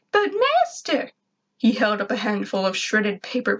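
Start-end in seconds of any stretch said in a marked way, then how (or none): 0.1-1.1 much higher, slow whiny plea; pleading robot. A narrator's reading. Robot Gur pleads with his busy master, whiny. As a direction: drag it out, begging.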